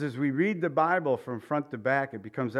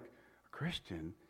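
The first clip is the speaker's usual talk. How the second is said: incredulous; 8 semitones lower, 16 dB quieter, much slower than usual. Retold or imitated. Incredulous echo of news.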